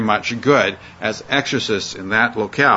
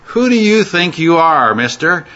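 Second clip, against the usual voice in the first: indignant challenge; 5 semitones higher than usual. Acted. Evil spirit scornfully challenges the would-be exorcists. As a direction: throw it back at them with contempt. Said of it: "we could put it this way".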